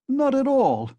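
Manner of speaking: high flustered outburst; embarrassed cry. Acted. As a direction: blurt it out, caught off guard. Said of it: "cried Zametov, obviously embarrassed".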